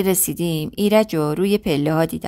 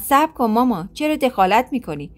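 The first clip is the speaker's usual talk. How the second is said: shouting; 4 semitones higher than usual. Acted. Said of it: "داد زد".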